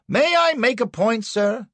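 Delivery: high, loud cut-in; urgent interruption. A narrator's reading. Anderson interrupts the prosecutor before the judge, urgent. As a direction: break in over the opposing lawyer. Counsel cuts in on opponent.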